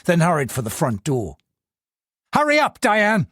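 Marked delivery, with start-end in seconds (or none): 2.3-3.3 a touch of irritation, higher and impatient; irritable. Acted. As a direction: rush her along, annoyed. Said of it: "he said, irritably".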